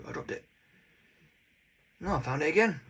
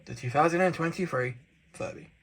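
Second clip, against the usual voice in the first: excited; 2 semitones higher, 8 dB louder than usual. Real, not acted. Host's big presentation reveal.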